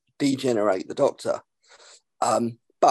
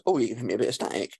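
mock script reading; 4 dB quieter, much faster than usual. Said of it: "it says".

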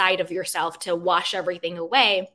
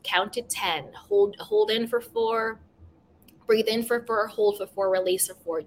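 breathing instructions. Shown as a demonstration. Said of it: "just breathe".

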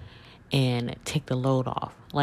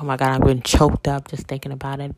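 excited rush; 4 dB louder, faster than usual. Real, not acted. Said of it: "you can tell in my voice".

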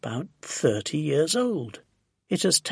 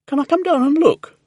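high, raised, eager call; shouting back; 11 semitones higher, 6 dB louder than usual. A narrator's reading. Man on balcony calls to his neighbour, shouting back. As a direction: call it down to someone below. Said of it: "Mister Hoppy shouted back".

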